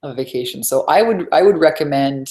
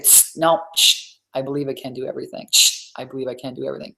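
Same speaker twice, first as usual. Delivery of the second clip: calming self-talk; 3 dB quieter than usual. Shown as a demonstration. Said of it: "You gotta be the one to say".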